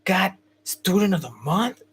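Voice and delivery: mock the teacher's doubting sneer; teacher sneering at the boy's award; snide disbelief. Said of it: "And she's like".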